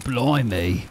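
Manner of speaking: playful fake Aussie twang; mock Australian accent. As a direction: put on a hammy Aussie voice. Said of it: "I do an Australian accent".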